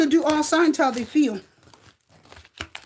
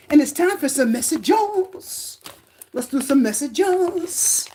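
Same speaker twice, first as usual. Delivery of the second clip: slow drawn out; 3 semitones higher, much slower than usual. Acted. Slow drawn-out host announcement.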